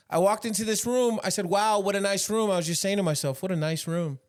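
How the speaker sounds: Trump impression. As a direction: brag it like Trump. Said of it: "It's Trump".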